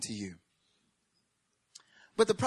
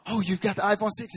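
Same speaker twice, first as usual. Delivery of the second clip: lightly voiced, higher-pitched news lady; 5 semitones higher than usual. News lady to the first buyer in line, lightly imitated higher voice. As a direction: imitate an excited reporter asking a question.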